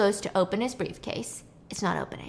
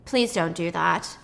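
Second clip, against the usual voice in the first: cold rebuff; 5 semitones lower, slower than usual. Retold or imitated. Nick rebuffs dabbing waitress.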